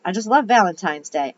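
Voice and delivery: lightly Southern gushing lady; mild Southern belle delight; southern accent. Acted. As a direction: gush with a touch of Southern US accent. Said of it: "I gave her a southern accent".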